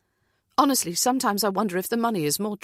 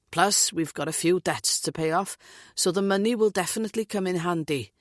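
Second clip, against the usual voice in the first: lilting Welsh man, lightly voiced; jovial Welsh lilt; Welsh accent. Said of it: "Welsh accent lilting".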